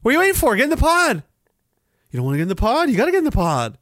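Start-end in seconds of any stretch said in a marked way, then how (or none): 0.0-1.2 mock enforcer. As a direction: order them into the pod.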